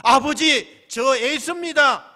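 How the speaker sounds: high, loud call to father; acted eager arrival. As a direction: burst in calling out to your father. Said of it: "곧장 뛰어 들어가죠".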